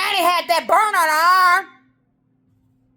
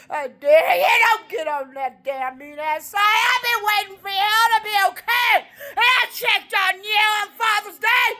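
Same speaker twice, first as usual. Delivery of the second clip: crying; 6 semitones higher than usual. Real, not acted. Crying, half sung.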